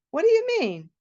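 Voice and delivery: high, startled brother; a sudden alarmed question. Retold or imitated.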